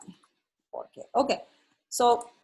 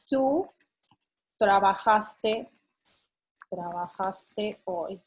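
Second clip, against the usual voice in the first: slow statement demo; slower than usual. Shown as a demonstration. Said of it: "This is an statement".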